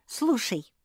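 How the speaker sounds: high, loud eager call; bursting to tell the word; excited. A narrator's reading. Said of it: "Та подпрыгнула на стуле".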